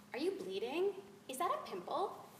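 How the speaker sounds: lightly voiced curious schoolkid, rising in pitch; a hint of a prying child; nosy classmate. Schoolchildren quizzing a newcomer.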